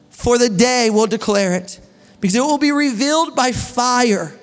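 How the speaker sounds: slow, deliberate Bible reading; preacher reading a long passage to the congregation; scripture reading. Acted. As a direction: lay each verse down slowly. Reads scripture aloud.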